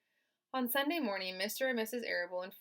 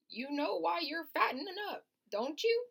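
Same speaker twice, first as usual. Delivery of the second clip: put-on old sheep voice; 9 semitones higher, 5 dB louder than usual.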